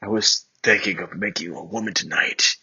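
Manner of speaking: breathy whisper into her neck. Acted. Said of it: "he whispered into my neck".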